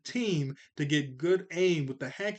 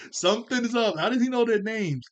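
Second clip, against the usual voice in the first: insistent; 7 semitones higher, 6 dB louder than usual. Real, not acted. Vlogger insisting on his theory.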